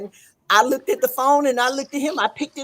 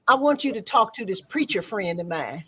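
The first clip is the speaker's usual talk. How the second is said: quiet pastor quote; 4 semitones lower, 6 dB quieter than usual. Retold or imitated. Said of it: "he said".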